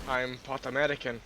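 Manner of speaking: a first try at an American accent; lightly put-on American accent; American accent attempt. Shown as a demonstration. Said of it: "I can do a different American accent".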